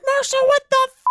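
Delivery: high, loud shocked outburst; high startled cry at the dog; shocked yell. Retold or imitated. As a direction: yelp it out in disgusted shock. Shocked owner yelling at dog.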